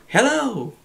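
hello coming back as an echo; echo reply. Shown as a demonstration. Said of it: "In other words".

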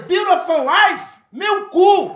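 hammed-up furious retort; mock angry shout. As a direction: spit the words back at him. Confronting the shopkeeper.

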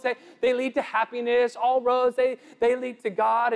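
a hint of a smug relativist; voice of the world. Preacher parodies society telling people to find their own way, lightly mocking. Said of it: "They'll tell us".

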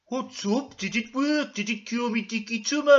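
high, loud character questions; high mock worry; anxious patient voice. Ermintrude anxiously asks about cure.

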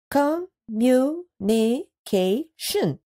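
"Communication" stretched slowly, each syllable drawn out; slow syllabified. Shown as a demonstration. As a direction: say "Communication" slowly, one syllable per chin touch. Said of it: "Let's do it again".

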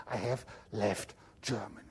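hushed, amused whisper; whispered punchline. Real, not acted. Lecturer whispering a wry punchline to students. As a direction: let the punchline slip out in a whisper.

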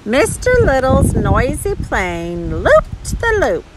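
swooping picture-book reading; animated narration. A narrator's reading. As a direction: read the climax with big rises and falls. Reading the story's climax to a child.

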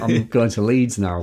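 put-on northern English accent. Shown as a demonstration. Speaker showing off their accent to the host, northern accent. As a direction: lay on the northern vowels. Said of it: "try and sound more northern".

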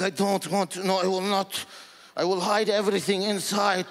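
exaggerated Arabic-accented father; thick Arab accent. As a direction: play the stoic Lebanese dad. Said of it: "thick accent".

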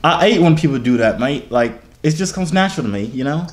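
lightly put-on British accent; mock British accent. Claiming the British accent comes natural, lightly faked British accent. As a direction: casually fake being a Brit. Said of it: "tries to do a British accent".

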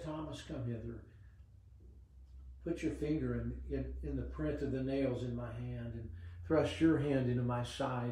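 a quiet, kind invitation to Thomas; gentle. Retold or imitated. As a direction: speak it gently, like inviting a doubting friend. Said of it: "He spoke gently to him".

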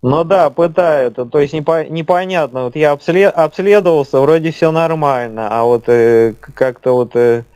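slowed speech. Real, not acted. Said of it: "почему у вас такая замедленная речь".

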